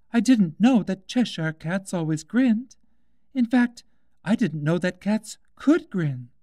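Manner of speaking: put-on high, bright girl's voice, asking politely; young Alice, curious. A narrator's reading. Alice asks the Duchess about the cat, in a high girlish voice. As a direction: lift into a little girl's voice, puzzled.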